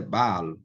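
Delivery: Baal ending in a true l; Baal with first a stressed, clear final l; original pronunciation. Shown as a demonstration. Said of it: "Mas, na verdade".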